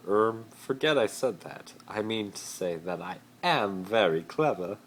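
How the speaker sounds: flustered Malfoy. Acted. Malfoy correcting himself to Harry, flustered. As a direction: cover a blunder quickly. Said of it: "Malfoy replied".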